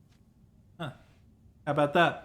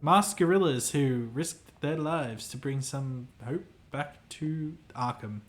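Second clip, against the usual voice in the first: sad tone. Acted. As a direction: let the grief for lost hope seep in gently. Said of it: "continues in a sad tone".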